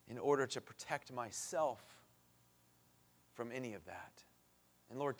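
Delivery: hushed, earnest prayer aloud. Acted. Preacher prays aloud.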